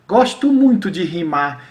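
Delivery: slow-paced poem reading; verse recitation. Shown as a demonstration. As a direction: recite the stanza with deliberate rhythm. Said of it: "eu vou dar um exemplo aqui".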